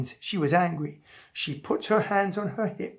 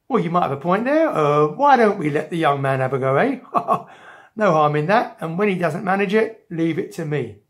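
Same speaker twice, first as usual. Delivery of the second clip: lower, hurried comic bobby voice; blustering policeman; 3 semitones lower, 4 dB louder than usual. Acted. Policeman relenting to the threatening mother, blustering. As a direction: back down with officious bluster.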